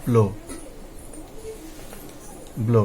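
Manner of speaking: "ব্লো" said as blo, with an oh vowel; "ব্লো" repeated after a pause, ending on oh; vowel demonstration. Shown as a demonstration. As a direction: say "ব্লো" as a separate word, O sounded like its letter name. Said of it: "ও এর মতোই হবে".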